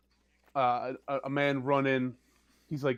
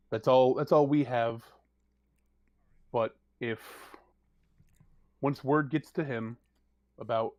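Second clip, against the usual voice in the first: serious NPC briefing; 4 semitones lower than usual. Acted. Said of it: "she goes".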